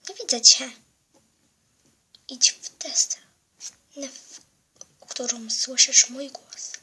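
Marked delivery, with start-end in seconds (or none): 2.3-6.7 sinister whisper. Acted. Hidden villain whispers to girl.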